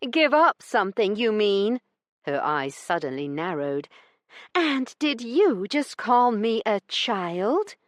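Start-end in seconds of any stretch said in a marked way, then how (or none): 0.1-1.8 high, tart correction; sharp lady retort. A narrator's reading. Heroine retorts. 4.5-7.8 slow, high, affronted question; offended. A narrator's reading. Heroine offended.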